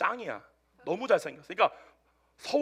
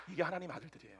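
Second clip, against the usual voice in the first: normal talking voice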